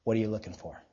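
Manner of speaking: very low, soft, probing repeat; hushed, serious insistence; pressing sincere question. Real, not acted. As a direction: ask it in earnest, dropping low and quiet. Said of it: "I mean, really".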